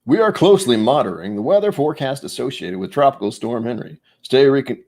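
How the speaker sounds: stiff formal announcement read; professional voice. Shown as a demonstration. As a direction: read it like a newsreader. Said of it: "in my professional voice".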